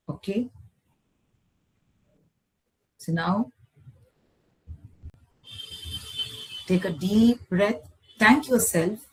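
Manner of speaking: measured relaxation voice with long pauses; guided meditation. Acted. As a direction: guide them calmly back, phrase by phrase. Leads closing relaxation and gratitude.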